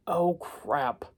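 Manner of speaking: whispered oh crap; whispered dismay. Retold or imitated. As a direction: breathe it in horror. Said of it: "I screwed up".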